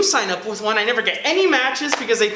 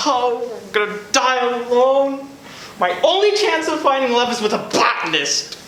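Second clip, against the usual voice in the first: melodramatic despair; 3 semitones higher than usual. Acted. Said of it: "I get so emotional".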